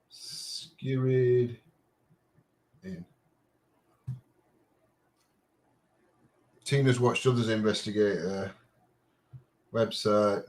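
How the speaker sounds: sniffly, blocked-nose voice; sniffling. Real, not acted. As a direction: talk through a sniffly nose. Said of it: "Sorry about all the sniffling".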